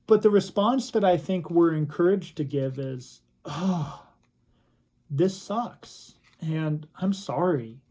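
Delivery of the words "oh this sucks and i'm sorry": soft sighed commiseration; understated, sorry sympathy; gentle sympathy. Acted. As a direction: share a friend's hurt quietly. Acted sympathetic reply to hurting friend.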